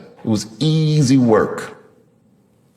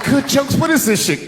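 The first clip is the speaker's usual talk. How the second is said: mock indignant wife; 12 semitones higher than usual. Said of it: "She's like".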